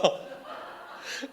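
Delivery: quiet unvoiced chuckle; soft breathy laugh. Real, not acted. Preacher amused by his pastor's remark, soft laugh. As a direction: laugh softly under the breath.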